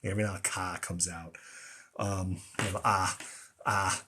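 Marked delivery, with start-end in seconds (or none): 0.5-0.8 Boston "ka", the R dropped; Boston accent. Shown as a demonstration. Admitting his Boston accent slips, ka with no R. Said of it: "the Boston accent slips out". 2.8-4.0 "ah" as a Boston R, left open with no R; dropped R. Shown as a demonstration. Showing how the Boston accent loses R, an open ah. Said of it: "the R disappears".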